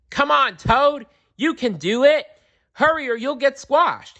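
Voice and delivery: high loud cheering shouts; shouting. A narrator's reading. Friends shouting at Toad to hurry, high and loud. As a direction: cheer him on, urgently. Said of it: "his friends shouted".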